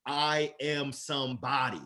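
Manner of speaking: slow "I am somebody" with weight on each word; deliberate affirmation. Shown as a demonstration. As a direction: say it slowly like a vow. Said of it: "to shout out, to verbalize".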